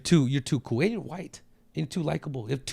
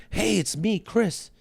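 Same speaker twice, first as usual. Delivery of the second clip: friendly greeting; 6 semitones higher, much slower than usual. Pretend. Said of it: "just say".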